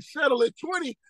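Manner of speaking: scoffing at the lawyer's twenty-year deal; incredulous echo. Retold or imitated. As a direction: throw the lawyer's offer back at him. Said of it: "I was like".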